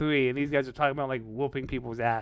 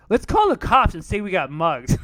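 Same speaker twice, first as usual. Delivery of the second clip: mock shout; 4 semitones higher, 10 dB louder than usual. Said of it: "Rodney says".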